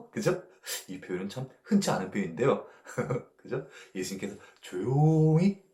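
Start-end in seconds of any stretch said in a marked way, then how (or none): none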